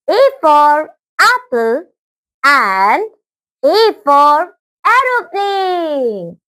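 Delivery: very slow, deliberate word-by-word reading; teacher's slow read-aloud, with pauses; reading out loud. Shown as a demonstration. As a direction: draw each word out clearly for young pupils. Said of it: "उन्हें जोर जोर से पढ़ेंगे".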